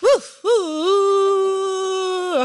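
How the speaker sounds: high whooping cheer for the winner; excited cheer. Real, not acted. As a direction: whoop it out, celebrating.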